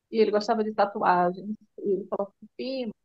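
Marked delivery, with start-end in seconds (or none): 2.6-2.9 "Prima" said softly as "Pima"; pet-name pronunciation. Retold or imitated. Son calling his cousin before the tattoo request, pet-name pronunciation. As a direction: leave the r out of "Prima". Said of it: "porque eles se tratavam assim".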